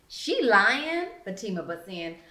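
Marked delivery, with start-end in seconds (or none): 0.1-1.1 calling her out. A narrator's reading. Fatima butts in.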